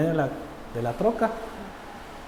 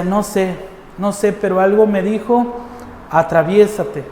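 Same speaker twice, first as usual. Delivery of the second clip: imitated trembling policeman; 4 semitones higher, slower than usual. Policeman explains why he stepped in, imitated agitation. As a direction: imitate the shaken policeman, emphatic on "atraviésate". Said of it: "el policía temblando, temblando, así le hacía y decía".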